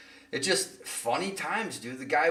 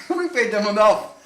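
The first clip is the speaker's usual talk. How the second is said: giggling, higher; laughing quote; 7 semitones higher, 7 dB louder than usual. Retold or imitated. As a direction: laugh through the line. Quoting dad, laughing.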